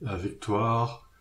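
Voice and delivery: stretched-out stage oratory, swelling on the last phrase; declaiming. Acted. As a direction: declaim it like an artist rallying a crowd. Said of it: "Eubéline l'artiste déclama".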